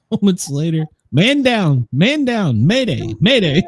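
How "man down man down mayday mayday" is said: raised mock radio distress call; mock emergency call. Joking about the collapse, mock mayday call.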